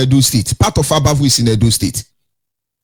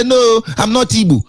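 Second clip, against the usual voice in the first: higher-pitched imitation of a denier; mocking protest in a higher voice; mock denial; 6 semitones higher than usual. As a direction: mimic someone disowning it, pitch raised. Mimics someone denying being Igbo.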